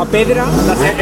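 "A Pedra la Serpe" said slowly, each word set apart; a slow, clear repeat of "A Pedra la Serpe" after being misheard; slow, careful repeat. Real, not acted. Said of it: "¿A, a la, apedrear a quién?".

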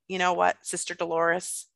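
calm father. Retold or imitated. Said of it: "my father just calmly said".

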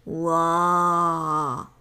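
a deep creature roar from far off; distant roar. Acted. Baby antlion roaring far away, deep creature roar. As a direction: roar like a hungry beast in the distance. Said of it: "zařvalo to v dálce".

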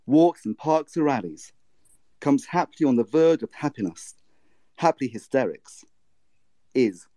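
measured poetry reading, pausing between lines; poem reading. Acted. Asked to read her scanned poem, measured poetry reading. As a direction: read the poem aloud to the group. Reads Gwendolyn Brooks poem aloud.

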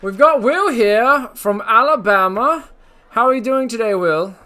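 a hammed-up British accent, lightly done; put-on British accent. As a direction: play a cheeky British host with a put-on British accent. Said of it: "That's a nice accent you have".

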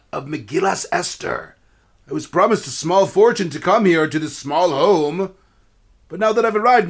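a touch of a haughty performer; pompous opera singer. Acted. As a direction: puff up like a self-important tenor. Opera singer character speaks.

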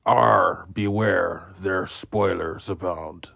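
lightly growled pirate talk; a quick hammy pirate. Pretend. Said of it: "talking like a pirate".

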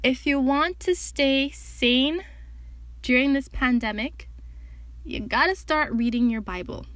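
measured, put-on solemnity with deliberate pauses; serious voice. Podcaster urging listeners to read the Bible, mock-serious. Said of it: "put on my serious voice".

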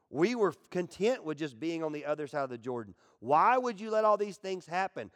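mock whining complaint; whiny Joshua. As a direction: whine at God in despair. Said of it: "starts questioning God".

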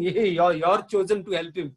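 imitated crowd jeer, starting loud; mocking jeer. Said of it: "They are mocking Jesus and saying".

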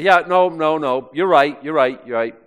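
loud, hurried backing down; flustered conceding. Acted. Preacher voicing Peter as the cock crows, flustered conceding. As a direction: concede it quickly and emphatically.

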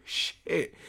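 breathy whispered "shit", caught out; whispered curse. Retold or imitated. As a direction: whisper it like you just got caught. Caught out after offending client.

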